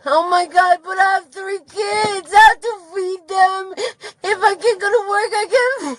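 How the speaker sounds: crying while pleading; tearful pleading. Real, not acted. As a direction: voice cracking with tears. Sobbing plea about kids.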